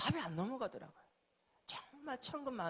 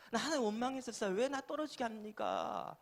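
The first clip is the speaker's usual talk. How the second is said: mock-aggrieved protest to God, pitched up; resentful complaint; 4 semitones higher than usual. Preacher re-enacting his complaint to God after failing exams, resentful. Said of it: "라고 원망했어요".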